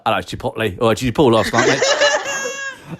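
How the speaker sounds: low cockney pub bloke, half laughing; matey pub banter, played for laughs; jokey geezer chatting to his mate; guy in the pub. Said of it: "imagine a guy in the pub".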